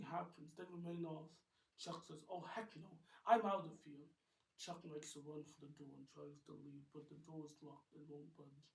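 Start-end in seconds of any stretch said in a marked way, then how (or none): 2.3-4.1 loud, high panicked bolt. Acted. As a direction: panic and run. Chuck panics, flees.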